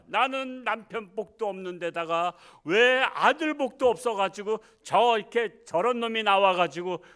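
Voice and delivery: loud, high tearful plea to God; tearful lament. Retold or imitated. Mother crying to God, tearful loud plea. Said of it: "하면서 그냥 펑펑 우는데".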